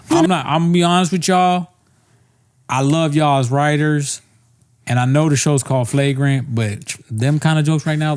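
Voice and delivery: hint of a put-on slangy host; mock slang talk. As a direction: address the writers in borrowed slang. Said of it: "talk like that with black accent".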